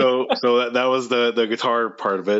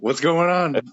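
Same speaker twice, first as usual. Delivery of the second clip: put-on confused old-timer; 8 semitones higher, slower than usual. Confused old person quoted.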